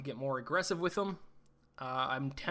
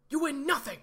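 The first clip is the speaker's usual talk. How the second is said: high, loud mock movie line; hammed-up movie quote, much higher and louder; 12 semitones higher, 6 dB louder than usual. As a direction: blast it like the famous film scene. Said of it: "Shout out to everyone who got that reference".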